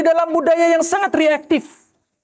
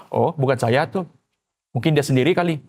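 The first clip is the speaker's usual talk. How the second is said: mock shrug-off; 10 semitones lower than usual. Voices a calm unbothered listener.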